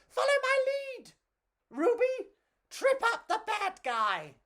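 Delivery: high, loud commanding call; rally your friends urgently; urgent cry. Acted. Pedro crying out to his friends to catch the robber. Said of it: "Pedro cried".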